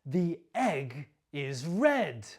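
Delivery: "red" stressed with a falling end; a careful, clear model for learners; model sentence. Shown as a demonstration. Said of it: "copy my stress and my intonation".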